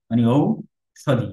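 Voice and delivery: ঔষধি with the ঔ drawn out slowly; lengthened vowel. Shown as a demonstration. Teacher showing the long ঔ in ঔষধি. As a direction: stretch the ঔ in ঔষধি. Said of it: "একটু দীর্ঘ করে উচ্চারণ".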